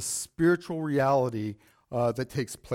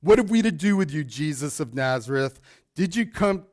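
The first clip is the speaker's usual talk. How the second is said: a touch louder demon's cry, not hammed up. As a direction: read the demon's cry with some force. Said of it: "this loud voice says".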